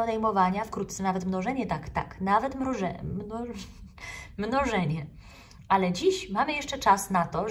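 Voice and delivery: rally the little ones with eager cheer; cheerful teacher. Acted.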